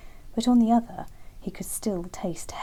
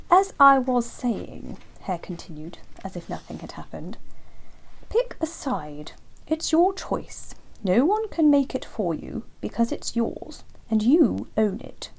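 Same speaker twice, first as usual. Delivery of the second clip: slow, raised earnest hare voice; Hare's voice; 3 semitones higher than usual. Acted. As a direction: lean in and spell out the choice slowly.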